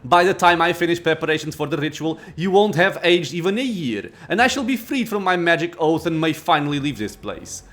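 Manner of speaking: proud, imperious lich; arrogant lich. Acted. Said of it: "Arrogance rings in the lich's voice".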